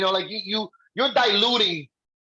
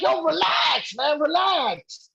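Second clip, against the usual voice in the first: calming a friend; 7 semitones higher, much slower than usual. Retold or imitated. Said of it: "I'm like".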